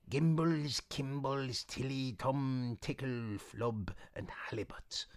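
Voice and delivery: fading to a whisper; mumbled spell words. Acted. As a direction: murmur a spell into the cauldron. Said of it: "mumbling strange words under her breath".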